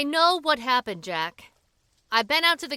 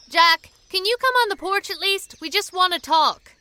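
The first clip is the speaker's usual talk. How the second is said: calling out; 4 semitones higher, 5 dB louder than usual. Acted. Calling to man in cabin.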